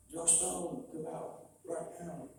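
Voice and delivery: high, drawn-out imitation of police; police call-out. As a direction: call him out like an officer, slowing on the order. Voices police calling him out.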